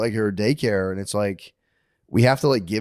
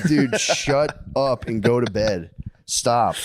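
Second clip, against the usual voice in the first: slow, drawn-out weary telling-off; mock exasperated parent; much slower than usual. Parent to chattering daughter at bedtime, exasperated. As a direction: act out a parent losing patience.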